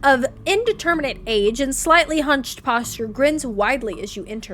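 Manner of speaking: storyteller reading the scene; game narration. A narrator's reading. Narrator describing Chuck's creepy house, storytelling read. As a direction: paint the creepy butcher's house.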